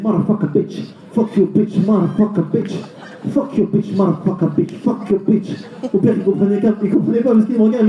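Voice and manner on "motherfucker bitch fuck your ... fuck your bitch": jurons américains imités, un peu plus haut; imitation de l'Américain. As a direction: singer un Américain qui insulte. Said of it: "il disait". (accent américain imité pour rire)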